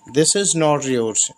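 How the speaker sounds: each English word spaced out slowly; slow dictation. Shown as a demonstration. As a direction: read it slowly for the learners. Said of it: "yours लगाते हैं".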